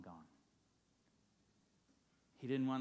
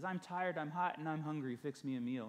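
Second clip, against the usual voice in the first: 1 bossy demand; 3 semitones higher, 4 dB louder than usual. Acted. Husband demands food from wife.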